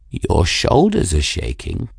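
aloof cat remark; note it coolly as the cat; lightly voiced aloof cat. Raoul riding Bridget's shaking shoulders, aloof.

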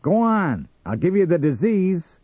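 loud, high-pitched threat; angry cry. Acted. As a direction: shout them away angrily. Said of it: "cried Sam".

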